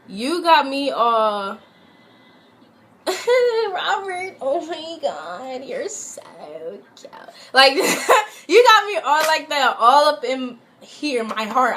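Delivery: laughing through tears, high; half-laughing, half-crying at his name; laughing while crying. Real, not acted. Mocking her ex for playing her heart, laughing high.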